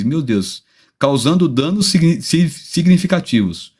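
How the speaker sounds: speaking carefully after a tooth was pulled; after tooth extraction. Real, not acted. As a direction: sore mouth after dental surgery, careful speech. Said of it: "a voz meio faiosa, porque eu tô com o dente meio operado".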